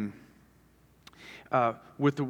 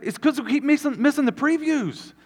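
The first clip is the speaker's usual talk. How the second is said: high-pitched, hammed-up exasperation; acted-out upset husband; mock frustrated; 12 semitones higher, 3 dB louder than usual. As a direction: whine in comic protest at the injustice. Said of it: "I am frustrated, and I am upset".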